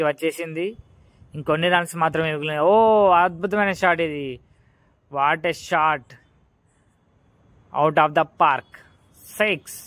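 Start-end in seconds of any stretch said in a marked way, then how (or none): 2.6-9.8 excited cricket commentary. Real, not acted. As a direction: celebrate the six as it flies. Six hit near match end.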